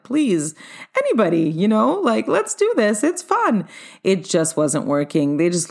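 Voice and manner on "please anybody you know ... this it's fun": pleading, pitch climbing higher toward the end; mock begging. Host pleading with silent dancers, a mock beg rising higher. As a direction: beg the crowd, rising as you go. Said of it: "almost to the begging part".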